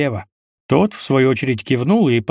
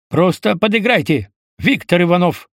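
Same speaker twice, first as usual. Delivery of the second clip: barked, higher officer command; barking major; 4 semitones higher than usual. Acted. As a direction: bark it like a strict major. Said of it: "рявкнул Пейн, копируя неизвестного майора".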